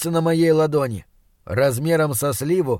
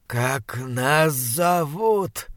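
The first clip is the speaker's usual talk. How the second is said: monster voice; much slower than usual. Acted. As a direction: drag each word like a rotting beast. Monster voice, slow and far.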